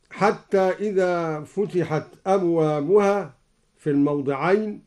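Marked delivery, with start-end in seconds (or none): 0.1-3.3 Quran recitation. Shown as a demonstration. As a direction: recite with measured melody. Recites verse before demo. (تلاوة مجودة)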